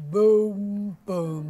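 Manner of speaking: low, deep drum booms. Shown as a demonstration. Teacher showing how low a kettle drum sounds. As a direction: drop down for a low drum boom. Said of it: "it makes a very low noise".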